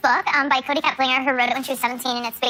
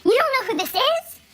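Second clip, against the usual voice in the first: mock-astonished fan, rising to a cry; excited disbelief; 11 semitones higher than usual. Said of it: "Christian was like".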